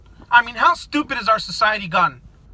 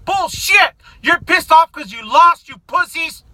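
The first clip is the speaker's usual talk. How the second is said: angry outburst; 3 semitones higher, slower than usual. Real, not acted. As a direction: slam it down in disgust.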